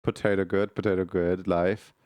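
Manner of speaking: a hint of a Slavic accent, broken English. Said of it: "Set in Slavic accent".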